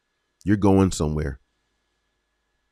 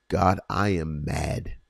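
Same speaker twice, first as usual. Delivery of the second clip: slow honest confession; 3 semitones lower, 3 dB quieter, slower than usual. Shown as a demonstration. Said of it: "tell him".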